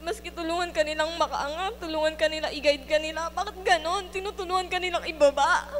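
pushing the hurt out through tears; crying. Real, not acted. Rising tearful outrage.

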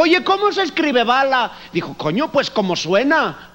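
Galician Spaniard. Retold or imitated. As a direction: play the clueless Galician. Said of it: "es supuestamente el gallego".

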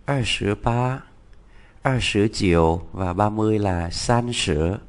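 teacher modelling the Chinese numbers in order; Mandarin twenties. Shown as a demonstration. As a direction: read the Mandarin twenties with clear tones. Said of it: "Hai mươi hai".

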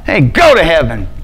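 joking insult, punchy on GO; mock mean. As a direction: call it out like a playful telling-off. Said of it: "That'd be like a mean saying".

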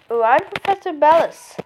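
mock French accent for the professor; a hint of a French professor. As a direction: voice her with a light French lilt. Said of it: "The professor is, like, French".

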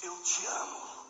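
slow, breathy whisper of love; whispered confession. Acted. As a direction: hush it out, slow and humble. Peter answering Jesus humbly.

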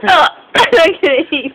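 groaned out through real laughter; laughing. Real, not acted. Telling friend they may heave, laughing. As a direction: laugh until you might be sick. Laughing until nearly sick.

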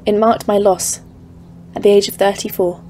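ominous story narration. A narrator's reading. Narrator recounting the mountains.

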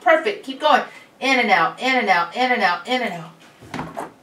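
loud, high, energetic coaching. Real, not acted. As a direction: call it out to the patient. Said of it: "And I'm kinda loud".

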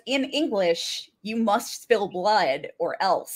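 slow, measured mock warning; ominous warning. Retelling the possessed girl's warning at the window, slowly ominous. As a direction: spell out the threat slowly.

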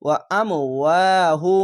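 "ওয়া আম ওয়াহু", push on আম, long second ওয়া; jolting emphasis. Shown as a demonstration. Teacher recites the word for learners, jolted then stretched. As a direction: hit আম, then draw out the ওয়া slowly. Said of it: "অবশ্যই ঝোঁক মেরে পড়বেন".

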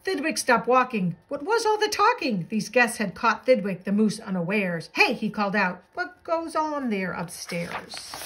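lilting rhymed picture-book narration; animated bedtime-story reading; storybook read-aloud. A narrator's reading. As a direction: read a rhyming tale to children.

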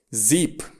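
"zip" with a long ee vowel. Shown as a demonstration. Teacher gives an IE example, "zip" with a long i. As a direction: say "zip" as "ziiip", vowel held. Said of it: "se mai pronunță lung când este scris I".

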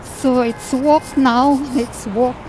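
candy in the mouth; sucking a hard candy. Real, not acted. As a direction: talk around a hard candy. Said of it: "I have candy in my mouth".

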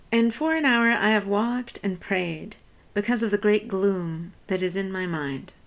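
measured recitation of the stanza; poem reading. Acted. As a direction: read it as verse, letting the lines carry. Teacher reads the poem aloud.

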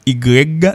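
"Y" said as "i grèg", voiced g ending; wrong pronunciation. Shown as a demonstration. Teacher rejects the Creole version, "Y" as ee-greg. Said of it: "ça va bon du tout".

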